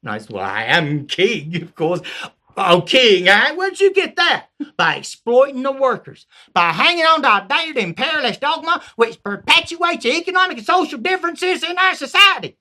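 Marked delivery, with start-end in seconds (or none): 0.3-2.0 king. Acted. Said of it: "Englishmen walking up". 2.6-12.6 high, loud Southern rant; Southern yokel lecturing on class; hammed-up Southern political rant; Southern peasant. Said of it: "I changed it to a Southern".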